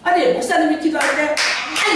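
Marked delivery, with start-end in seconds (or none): 1.4-1.9 mock prayer cry. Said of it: "이러면서 기도를 하니까".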